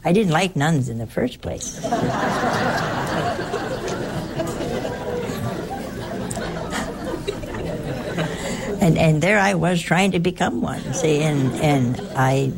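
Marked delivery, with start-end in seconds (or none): 1.8-8.8 long high laugh; a real amused laugh. Real, not acted. Long laugh after admitting dislike of nuns.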